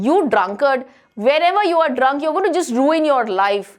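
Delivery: quick retold scolding of a drunkard; mild mock shout. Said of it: "She used to shout at him".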